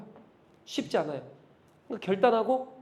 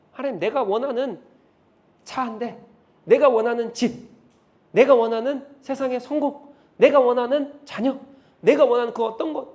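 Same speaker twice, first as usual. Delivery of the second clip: pleading prayer; 4 semitones higher, 5 dB louder than usual. Acted. Acted prayer builds to a cry.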